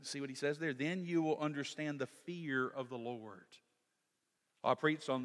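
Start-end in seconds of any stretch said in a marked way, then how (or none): 0.7-3.6 quiet reading. Acted. Preacher rereading the verse softly to the congregation. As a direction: let it settle, hushed.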